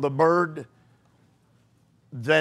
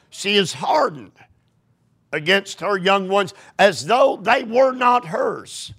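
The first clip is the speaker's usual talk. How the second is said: rising to a shout, higher; emphatic rereading; 3 semitones higher than usual. Shown as a demonstration. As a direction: reread it with growing force. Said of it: "Am I reading this correctly?".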